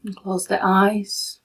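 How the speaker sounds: calm, unhurried meditation guide with long pauses; soothing, even delivery in short, spaced-out phrases; guided meditation. Real, not acted. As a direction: guide them gently into stillness, leaving long silences.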